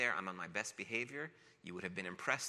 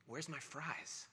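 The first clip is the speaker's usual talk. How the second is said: put-on slow, whiny small-child voice; little boy sadly asking for his fries; tearful little kid; 6 semitones higher, 7 dB quieter, much slower than usual. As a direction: drag it out like a disappointed crying kid. Crying child asks for fries.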